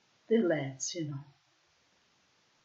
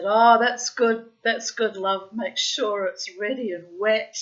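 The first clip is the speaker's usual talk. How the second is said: drawn-out flirty oh, then teasing; cheeky innuendo; 2 semitones higher, 6 dB louder than usual. Retold or imitated. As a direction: lay on the innuendo. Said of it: "'cause I'm cheeky like that".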